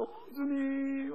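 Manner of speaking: long drawn-out, high plea, imitating tearful prayer; retold tearful prayer. Visitors praying with the family, retold tearful plea. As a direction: stretch the cry out slowly, mock weeping. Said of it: "하고 기도하면서 울었어요".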